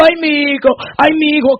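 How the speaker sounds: soft grieving "ay, mi hijo" of a mother; a hint of a mother crying for her son; mild mock wail. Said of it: "quizá decía ella". (lamento suave de madre)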